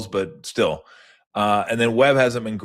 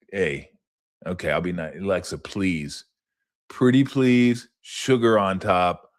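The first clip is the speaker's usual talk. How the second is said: mock sweet pleading; 2 semitones lower, slower than usual. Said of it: "kinda like".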